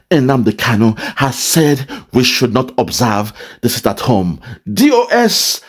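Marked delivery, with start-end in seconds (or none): 4.7-5.6 higher, hammed-up scolding of the DOS; mock scolding. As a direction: imitate the man scolding, half-serious. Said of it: "He is trying to scold the D O S".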